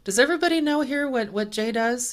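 big, high, loud announcement to the room; imitating a booming doctor calling out to staff. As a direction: boom it out to the whole office. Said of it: "had a booming voice".

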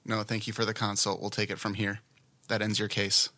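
bored, toneless consultant on the phone; deadpan, no interest at all; flat monotone voice. Acted. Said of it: "Did you like my flat monotone voice?".

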